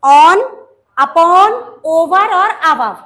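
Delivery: loud classroom recitation; loud drill. Shown as a demonstration. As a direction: repeat the list loud for the class to follow. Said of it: "Above नहीं बोलना".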